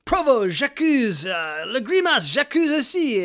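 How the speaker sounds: mock grand accusation, high and slow; full-on Zola. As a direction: proclaim it like Zola denouncing in court. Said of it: "goes full on, like, Emily Zola".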